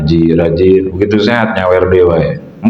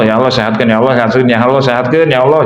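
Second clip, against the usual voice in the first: pushy repeated prayer; 4 semitones higher, faster than usual. Retold or imitated. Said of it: "jangan ngeduluin Allah".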